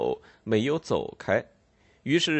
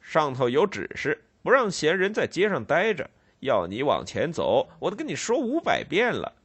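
stolid, higher exasperated officer; unmoved constable; 4 semitones higher than usual. Acted. Constable shaking the boy, unmoved and impatient. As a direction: recite orders without pity. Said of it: "巡警无动于衷地摇晃着他".

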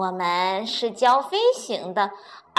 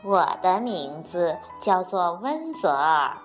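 politely; 4 semitones lower, 4 dB louder than usual. Acted. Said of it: "彬彬有礼地说".

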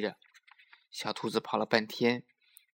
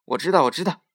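loud, higher-pitched little-rabbit interruption; impatient know-it-all yell; shouting; 5 semitones higher, 9 dB louder than usual. A narrator's reading. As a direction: blurt it out over the elder. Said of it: "就嚷起来".

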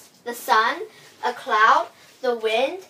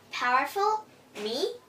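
high, surprised rising question; 4 semitones higher than usual. Acted. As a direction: sound amazed at the idea. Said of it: "said the sun".

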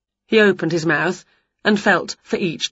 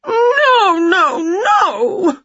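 high, louder wailing; 13 semitones higher, 5 dB louder, much slower than usual. Acted. Witch refusing the dentist, louder wail. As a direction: howl the refusal. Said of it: "wailed Winnie even louder".

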